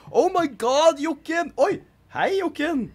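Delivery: high, loud delighted hello; thrilled, high-pitched welcome; excited greeting. Real, not acted. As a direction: greet an unexpected arrival with a squeal. Excited greeting of arriving Jokken.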